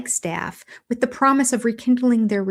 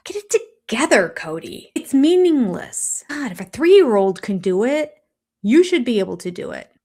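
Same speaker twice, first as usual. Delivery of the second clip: exasperated scold; 3 semitones higher, 4 dB louder than usual. Real, not acted. Host fed up with Cody, exasperated scolding. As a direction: scold him like a grown man.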